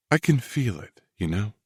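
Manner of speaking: soft breathy woman's voice. Acted. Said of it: "She asked in a breathy voice".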